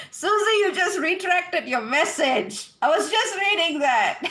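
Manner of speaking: words broken by a little laugh; laughing while talking. Real, not acted. Host laughing as a viewer deletes a message. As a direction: laugh through the line.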